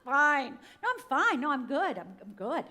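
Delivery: loud, high, over-bright laughing denial; fake fine. Survivor hiding pain behind an outside, hammed-up fake cheerfulness. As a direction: insist too hard, laughing it off. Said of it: "My outside, straight A student".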